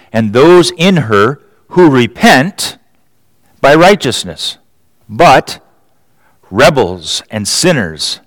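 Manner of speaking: measured, weighty reading of prophecy; preacher reading Isaiah aloud to the congregation, solemn; solemn scripture reading. Acted. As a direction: read it like a prophet's warning. Long scripture reading, emphatic.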